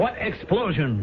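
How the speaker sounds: high, slow, frightened question; rising panic. Acted. Dazed man repeating himself as the drums build, high and frightened.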